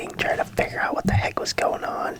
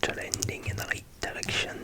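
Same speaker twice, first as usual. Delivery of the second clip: whispered mock accent with softened R's; playful put-on accent; 6 dB quieter than usual. Repeating it to viewers for no reason, put-on accent. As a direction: slip into a silly accent, whispering. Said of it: "I don't know why I'm doing an accent".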